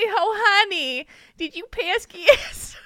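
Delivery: put-on slow, high New Jersey accent. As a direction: drawl it like a Jersey mom. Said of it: "it's like a Jersey thing when they say".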